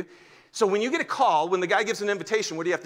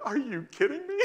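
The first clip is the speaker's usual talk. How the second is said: laughing delight; 9 semitones higher than usual. Real, not acted. Excited at young believers.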